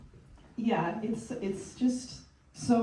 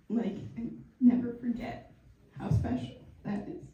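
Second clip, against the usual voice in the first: tearful; 4 dB quieter than usual. Real, not acted. A friend fighting tears while telling Thupten she loves her. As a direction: voice dropping to a near whisper, holding back tears. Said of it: "it's really easy to make me cry".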